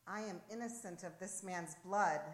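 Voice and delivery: measured, formal pronouncement; solemn procurator's declaration; intoned declaration. A narrator's reading. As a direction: intone it as an official verdict. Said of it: "intoned the procurator".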